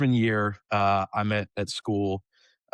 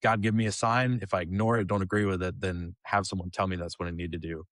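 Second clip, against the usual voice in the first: half-hearted prayer recalled. Retold or imitated. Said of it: "my half-hearted prayer of".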